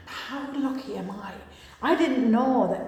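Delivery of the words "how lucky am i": hushed, slow awe; moved. Retold or imitated. Recalling feeling moved by the sunset, quiet and slow. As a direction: say it softly, humbled and grateful. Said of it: "I'm, like, so moved".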